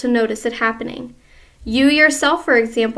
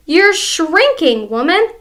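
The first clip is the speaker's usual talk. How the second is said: gloating husband; 5 semitones higher, 5 dB louder than usual. Acted. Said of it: "said Mister Twit".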